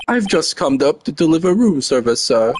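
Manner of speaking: bellboy. Acted. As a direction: play an obsequious hotel bellboy. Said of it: "I am the bellboy".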